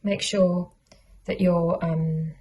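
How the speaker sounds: talking around pins in mouth; muffled by pins held between lips. Real, not acted. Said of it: "'cause I've got a pin in my mouth".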